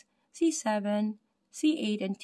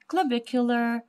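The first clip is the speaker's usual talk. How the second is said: "clavicular" sounded out with deliberate care; careful pronunciation; 3 semitones higher than usual. Real, not acted. Teacher retrying a difficult anatomy word, "clavicular" pronounced carefully. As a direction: pick through each syllable of "clavicular". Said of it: "pronounce it very slow".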